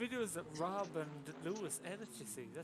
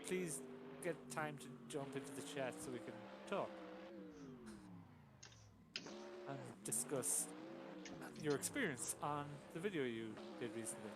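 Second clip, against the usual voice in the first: recorded phone message; 2 semitones lower, 4 dB quieter than usual. Pretend. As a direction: read it like an answering machine. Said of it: "Why are you talking like you're a recorded message?".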